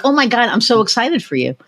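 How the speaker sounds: mildly excited cheer; excited for you. Retold or imitated. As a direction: gush lightly for a client's win.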